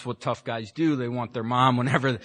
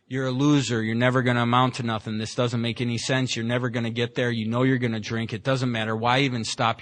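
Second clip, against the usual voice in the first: inner critic voice; 4 semitones lower than usual. Retold or imitated. The inner voice berating the newly sober speaker, low and fast. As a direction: rattle it off like the voice in your head tearing you down. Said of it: "the volume gets turned all the way up".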